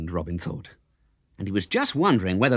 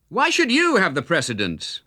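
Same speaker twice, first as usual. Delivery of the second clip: higher, youthful challenge; a higher young outlaw voice, put out; young Robin, indignant; 9 semitones higher than usual. A narrator's reading. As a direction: bristle at the stranger's demand.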